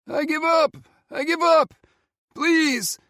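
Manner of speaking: high, loud begging cry; desperate pleading. Acted. Lost voice begs from the forest edge, high and loud.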